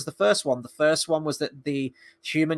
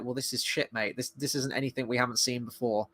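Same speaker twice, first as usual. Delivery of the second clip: muttered verdict; 3 semitones lower, 8 dB quieter than usual. Retold or imitated. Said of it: "you're just like".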